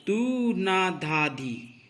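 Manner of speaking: each syllable drawn out slowly; slow, separated tabla syllables; slow recitation. Shown as a demonstration. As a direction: recite the bols slowly, one by one. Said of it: "आप देखेंगे".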